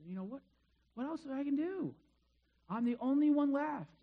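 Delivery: mild acted exasperation; frustrated complaint. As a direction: vent like a prophet at his wit's end. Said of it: "'Cause he's still frustrated".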